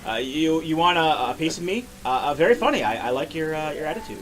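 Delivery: Jeff Goldblum voice. Acted. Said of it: "do the Jeff Goldblum voice for Ganondorf".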